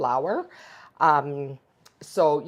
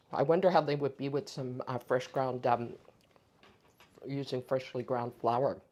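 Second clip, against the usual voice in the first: talking through a mouthful; words around a bite of roll; mouth full; 2 semitones lower, 3 dB quieter than usual. Real, not acted. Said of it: "talking with my mouth".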